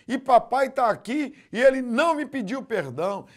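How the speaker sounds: put-on high, loud child's complaint; boy crying out in church. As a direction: accuse your father in tears. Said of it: "o menino gritou chorando".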